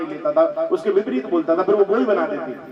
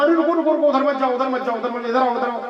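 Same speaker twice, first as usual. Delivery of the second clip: calling out; 5 semitones higher, faster than usual. Acted. Husband calling the boatmen back to search upstream, urgent. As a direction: yell for them to stop, then wave them over.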